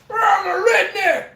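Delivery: high, hollered redneck twang; hammed-up redneck yell; redneck accent. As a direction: shout it like a mock redneck. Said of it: "I speak all them".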